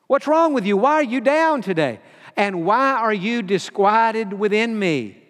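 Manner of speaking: scolding himself. Retold or imitated. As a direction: lightly chide yourself, half in jest. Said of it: "Be like me saying".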